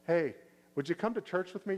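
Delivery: light, upbeat ask to a friend; friendly invite. Shown as a demonstration. Churchgoer casually inviting a friend, friendly and light. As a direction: invite them simply and kindly. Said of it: "And you just say".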